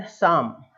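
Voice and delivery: 'शाम' starting on the sibilant, no P; silent P. Shown as a demonstration. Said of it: "इस तरीके से बोलेंगे". ('शाम' को बिना P के सीधे बोलना)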